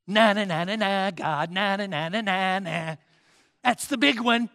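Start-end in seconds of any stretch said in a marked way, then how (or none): 0.0-3.0 mock stammer. Mocking Moses' stammering excuse.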